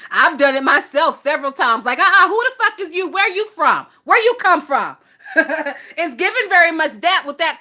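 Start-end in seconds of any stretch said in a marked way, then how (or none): 2.0-5.0 higher and fast, firing questions; rapid-fire challenge. Retold or imitated. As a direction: shut the stranger down quickly. Acted challenge to a newcomer.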